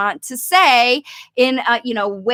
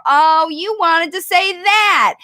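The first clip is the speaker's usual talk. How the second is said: upbeat modeling; 4 semitones higher than usual. Shown as a demonstration. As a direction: cheer them on as you model it. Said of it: "You give them a model for".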